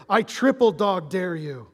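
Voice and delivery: put-on movie kid's dare. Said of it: "kinda like the Christmas story".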